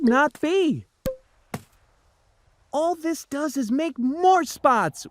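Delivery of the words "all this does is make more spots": higher child voice, mild mock yell; children protesting. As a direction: complain up at the cat like a kid. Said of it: "we yelled at the cat".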